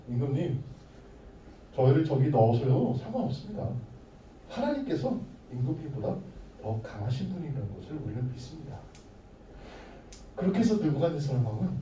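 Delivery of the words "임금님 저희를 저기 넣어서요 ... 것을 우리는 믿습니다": dignified reply. Acted. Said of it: "당당하게 얘기한 거예요".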